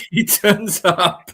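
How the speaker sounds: slow, mock-grand magic reveal; magician announcer. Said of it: "As if by magic".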